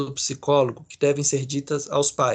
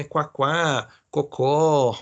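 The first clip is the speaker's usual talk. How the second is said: animal sound examples; much slower than usual. Shown as a demonstration. Teacher shows students what onomatopoeia means, light animal sounds. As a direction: quack quack, then a clucking cocó. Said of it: "É você fazer nome de bicho".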